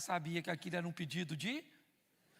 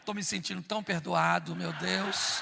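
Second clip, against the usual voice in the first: mocking relief, louder; louder sarcastic sigh; 7 dB louder than usual. Husband walking away from wife, sarcastic. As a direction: say it with heavy irony.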